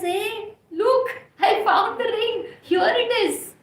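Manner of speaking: high, loud triumphant call; acted excitement, pitched right up; excited discovery. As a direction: call out your find to everyone. Friend announces finding the ring.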